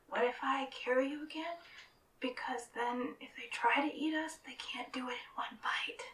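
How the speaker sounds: timid loud stage whisper; whisper yelling. Acted. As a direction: whisper loudly, worried and hesitant. Character voice, whispering.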